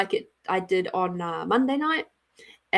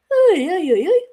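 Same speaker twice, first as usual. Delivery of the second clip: playful call-out; 7 semitones higher, 7 dB louder than usual. Real, not acted. Greeting a viewer.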